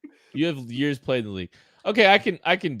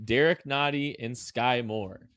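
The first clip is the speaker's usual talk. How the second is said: slow, measured list reading; neutral announcer voice; slower than usual. Pretend. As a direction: read each pick out evenly, like an official. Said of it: "read them all in a neutral voice".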